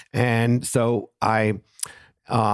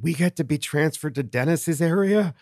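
excited missionaries; 7 semitones higher than usual. Retold or imitated. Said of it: "they are so excited".

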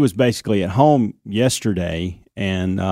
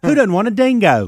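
lightly put-on British-Australian accent, higher; playful British-Australian twist on the joke; 10 semitones higher than usual. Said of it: "she goes to that accent".

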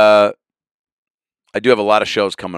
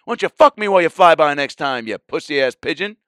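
mock taunt; 7 semitones higher, 3 dB louder than usual. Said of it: "challenging it to".

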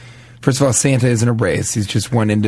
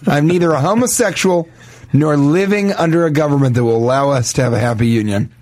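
higher, building outrage; indignant rant; 5 semitones higher than usual. Acted. Confused man questions his new husband, rising outrage. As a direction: rise into a baffled tirade.

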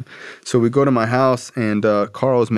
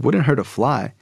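higher-pitched questioning repeat; incredulous echo; 4 semitones higher than usual. Retold or imitated. Son doubting dad's praise of Carl, incredulous. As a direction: throw the phrase back as a doubting question. Son echoes dad in disbelief.

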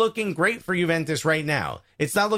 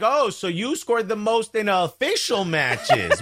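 sarcastic reading. Retold or imitated. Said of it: "read it sarcastically".

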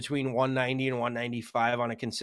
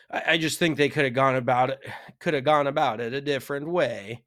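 louder, hammed-up fake Italian accent; pseudo-Italian accent; 4 dB louder than usual. Co-host agreeing the rollback was badly handled, in pseudo-Italian accent. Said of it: "a pseudo-Italian accent there".

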